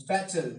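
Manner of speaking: "Battle" with a voiced b, not a w; correct battle. Shown as a demonstration. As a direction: start "Battle" on a pressed-lip b. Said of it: "Not wattle".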